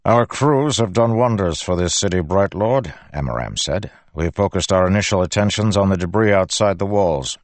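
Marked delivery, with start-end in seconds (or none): 0.1-2.9 a hint of a formal military officer, slightly lifted; lightly voiced officer giving a report; Amaram's officer voice. 4.1-7.4 a hint of a formal military officer, slightly lifted; lightly voiced officer giving a report; Amaram's officer voice. Amaram continues his report.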